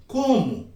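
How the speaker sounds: "Como" with a long falling sweep; demonstrative, falling "Como?"; expressive questioning. Shown as a demonstration. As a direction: show the expression on "Como?", gliding down. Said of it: "Olha essa prestação".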